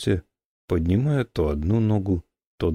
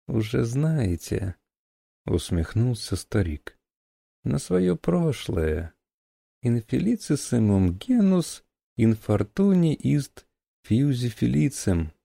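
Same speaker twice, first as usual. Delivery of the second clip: put-on higher slow creaky old man; 4 semitones higher than usual. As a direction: ancient scholar, slow and creaky. Old professor character voice.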